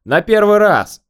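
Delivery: high, loud call after someone; parting shout. A narrator's reading. Inspector letting the man off with a warning, shouting high. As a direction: call out across a distance. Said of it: "крикнул я на прощание".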